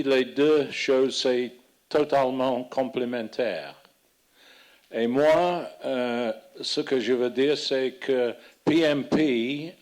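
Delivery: non-native speaker of French; speaking French with a foreign accent. Real, not acted. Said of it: "mon français, c'est très vieux". (accent étranger en français)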